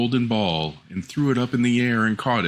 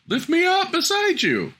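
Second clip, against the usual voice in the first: very high little frog voice; frog crying out. Acted. Frog on the floor asking the princess to lift him, very high. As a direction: squeak it up at her like a tiny frog. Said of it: "sat still and cried".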